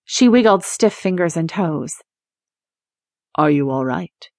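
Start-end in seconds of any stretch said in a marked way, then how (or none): 3.4-4.3 low, gentle question from a creature; a gentle rumble, calming a frightened girl; soothing calm male voice. A narrator's reading. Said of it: "It was a male voice, soothing and calm".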